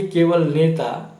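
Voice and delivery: केवल नेता spelled out slowly for emphasis; slow down and stress केवल नेता. Shown as a demonstration. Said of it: "जी हटा दीजिए".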